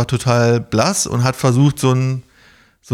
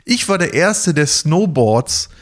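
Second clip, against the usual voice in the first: boastful Gerd; 5 semitones higher, slower than usual. Retold or imitated. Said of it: "hat er gesagt".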